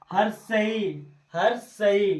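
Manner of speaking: हर सही with the final ee held; long vowel. Shown as a demonstration. Teacher showing long vowels, सही drawn out. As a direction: stretch the end of सही to double length. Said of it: "इससे हमारा दो गुना समय लग रहा है".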